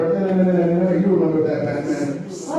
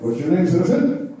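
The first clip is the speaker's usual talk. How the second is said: Batman voice; 2 semitones higher than usual. Retold or imitated. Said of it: "he sounds just the same".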